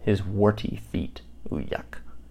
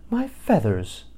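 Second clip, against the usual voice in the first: warbled; 3 semitones higher, slower than usual. A narrator's reading. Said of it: "warbled Kalinka".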